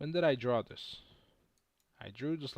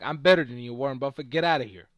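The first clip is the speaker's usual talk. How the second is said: mock trash talk; 7 dB louder, faster than usual. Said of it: "I'll be like".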